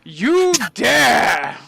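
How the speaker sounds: loud, hammed-up indignant cry; mock outrage. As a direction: play the offended cop, overblown.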